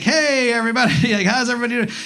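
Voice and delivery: a comic bouncing on stage too cheerfully; mock-chipper opener; upbeat hello. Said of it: "I was like".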